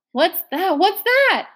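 1 squeak. A narrator's reading. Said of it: "Mister Randolph squeaked".

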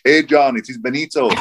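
hammed-up, bad Italian accent; terrible Italian accent. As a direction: put on an amateur Italian accent for a friendly message. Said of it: "Terrible Italian accent".

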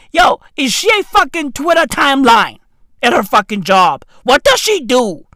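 fast, exasperated demand; worked-up, rapid-fire disbelief; incredulous questioning. Retold or imitated. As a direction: fire off questions in mock outrage. Acts out incredulous questioning of wife.

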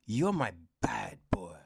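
breathy whispered flirt, imitating; a hint of a swooning heroine whispering; mock swooning character. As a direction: tease it out as a mock seductress. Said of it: "she's just like".

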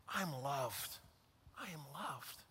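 soft, hushed repetition; very soft, letting it sink in; quiet affirmation. Shown as a demonstration. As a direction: murmur it to yourself. Repeating the affirmation softly.

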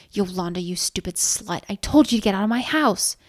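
mock scream of rage; screamed insult. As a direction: build to an angry order. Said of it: "she screamed from inches away".

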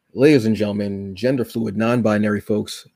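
drawn-out showman introduction, slowing right down on the name; announcer intro. Acted. Podcast host presents his guest with a slow announcer build.

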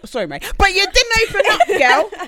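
lightly put-on Scouse accent; a hint of a Liverpool Scouse accent. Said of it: "you threw that in with that Scouse accent".

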